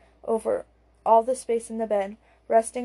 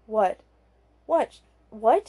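cross; slower than usual. Acted. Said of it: "she repeats crossly".

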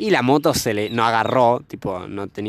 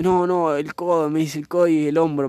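higher voice, lightly mimicking someone hurt; imitated hurt girl; 5 semitones higher than usual. Retelling the girl's sore elbow, lightly voiced hurt girl. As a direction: imitate an injured girl brushing it off.

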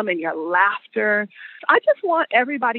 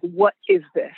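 lightly voiced stern mother, lower pitch; a hint of lowered, stern mama voice; stern Black mama; 4 semitones lower than usual. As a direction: demand an answer like a mother. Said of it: "in the stern Black mama voice".

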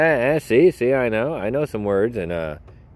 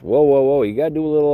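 playful alarm; 6 semitones higher, 5 dB louder, faster than usual. Real, not acted. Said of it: "holding listeners back".

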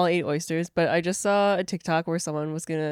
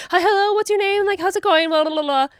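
put-on high, loud, rushed doctor with an Asian accent; hurried Asian doctor impression; 12 semitones higher, 6 dB louder than usual. Retelling the doctor's rushed greeting in a put-on Asian accent. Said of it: "half doing an Asian impression".

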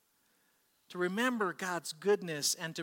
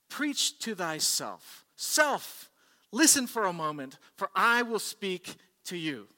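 commanding self-address; 3 semitones higher, 7 dB louder, slower than usual. Acted. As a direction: call your own self firmly to attention. Quoted preacher sternly commands his own self.

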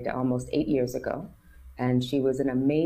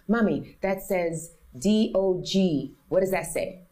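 put-on lightly higher, slow child sounding out letters; a hint of a small girl reading aloud; little daughter's voice; 5 semitones higher, slower than usual. Daughter quoted reading signs.

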